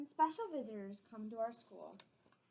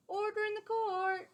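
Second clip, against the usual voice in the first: high, loud call for order in court; a stern judge hushing the courtroom; 11 semitones higher, 9 dB louder than usual. Acted. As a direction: bang the gavel and call the room to order. Judge pounding her gavel.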